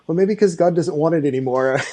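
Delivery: lightly imitated Australian accent. Retelling a worship singer's blunt remark, light Australian accent. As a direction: quote her with a hint of Australian. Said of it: "in her Australian accent".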